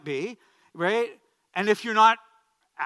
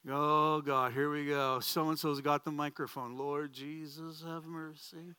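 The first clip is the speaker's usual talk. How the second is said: mock weary dread; slower than usual. Pastor dreads who has got the microphone, mock despairing. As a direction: act out a resigned prayer, drawing out the last words.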